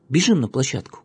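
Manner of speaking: loud, high call to friends; shouting. A narrator's reading. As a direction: shout it as you run off. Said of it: "крикнул Славик".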